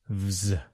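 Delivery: "vz" as one buzzing voiced cluster; voiced consonant demo. Shown as a demonstration. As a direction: buzz from "v" straight into "z". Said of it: "These are both voiced consonant sounds".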